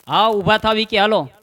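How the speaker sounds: loud wake-up call; wife calling out. Acted. Wife loudly waking husband early morning, calling out. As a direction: rouse a sleeping husband.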